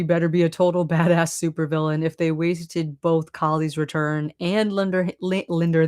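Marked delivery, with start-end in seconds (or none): 4.7-5.9 Linda said Linder, no final r sound but an er ending; Boston-style Linder with dropped r; Boston accent. Real, not acted. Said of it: "my Boston accent saying Linder instead of Linda".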